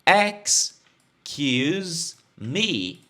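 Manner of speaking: "Excuse me" stretched out extremely slowly; syllable by syllable, "Excuse me"; very slow model. Shown as a demonstration. Teacher drilling students, "Excuse me" said extremely slowly.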